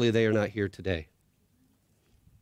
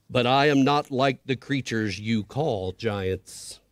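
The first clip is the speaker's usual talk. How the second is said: very slow, lower, grand voice; large, deep voice; slower than usual. Acted. Unseen creature answers the scared boy, slow and grand. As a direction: speak slowly, vast and calm. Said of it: "said the large voice".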